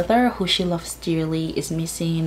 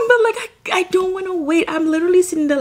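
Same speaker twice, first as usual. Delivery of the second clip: laughing; 12 semitones higher, 4 dB louder, much faster than usual. Real, not acted. Laughing, gushing about pre-order.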